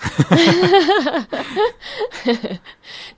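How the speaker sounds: high embarrassed giggle; giggling. Real, not acted. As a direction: laugh at yourself after a slip. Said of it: "Put on my Spanish accent there".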